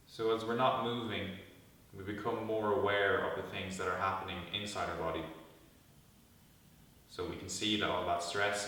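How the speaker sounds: calm guided meditation with long pauses; guided body scan. Real, not acted. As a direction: lead them gently into stillness, pausing between instructions.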